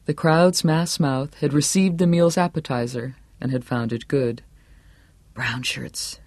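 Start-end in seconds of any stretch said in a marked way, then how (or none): 5.3-6.2 soft, private thought; inner thought. A narrator's reading. Johnny judging the honor guard to himself, quiet thought. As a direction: think it under the breath. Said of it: "Johnny thought".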